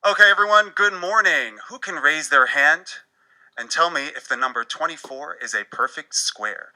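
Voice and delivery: lightly voiced teacher calling on the class; cheery teacher. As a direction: open the lesson like an upbeat teacher. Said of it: "allow me to demonstrate".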